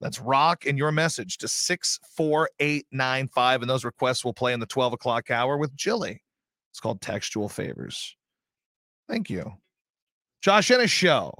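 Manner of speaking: on-air DJ talk-up; radio DJ read. Acted. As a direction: read the promo like a DJ. Talking up records on air.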